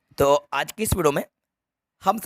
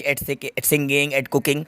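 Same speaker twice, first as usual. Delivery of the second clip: slow reading; 2 semitones lower, much slower than usual. Shown as a demonstration. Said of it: "slow example list".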